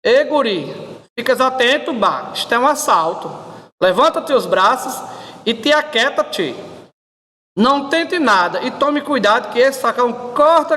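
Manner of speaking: a light gaúcho accent on a mock robber; a calm robber from Rio Grande do Sul; light gaúcho accent, unhurried mock threat. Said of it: "o assaltante gaúcho".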